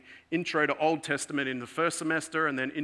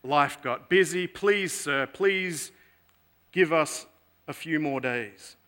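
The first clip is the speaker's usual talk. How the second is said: pleading excuses; 2 semitones higher, 4 dB louder than usual. Retold or imitated. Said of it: "the excuses come out".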